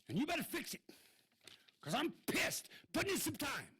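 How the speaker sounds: real heated public complaint, shouting; irate shouting. Real, not acted. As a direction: yell it out, fed up and furious. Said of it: "sorry to be so irate".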